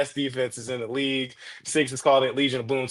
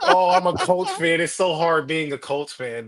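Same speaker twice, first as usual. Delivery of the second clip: mock whiny Colts fan. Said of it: "get the fuck outta here with this "woe is me".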